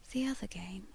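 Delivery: soft, slow, unvoiced whisper; ghostly lady whispering the words. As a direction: breathe it out slowly like a secret. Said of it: "she said slowly".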